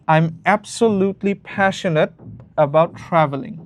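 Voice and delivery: absolutely passionate drawn out slowly; slow, careful demo. Shown as a demonstration. Teacher reading a band nine answer slowly to students. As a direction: read it slowly like a model answer. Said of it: "filler word add করছে".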